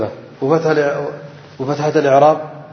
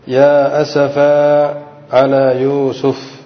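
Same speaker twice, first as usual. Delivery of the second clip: tilawa; much slower than usual. Shown as a demonstration. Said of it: "قال الله تعالى".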